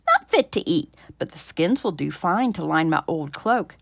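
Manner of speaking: put-on loud, dismissive old wife; sniffy farmer's wife. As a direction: brush the rabbits off as useless.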